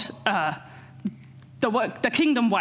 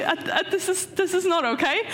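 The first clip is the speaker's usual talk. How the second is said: mock indignant; 5 semitones higher than usual. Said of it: "they're a bit indignant, going".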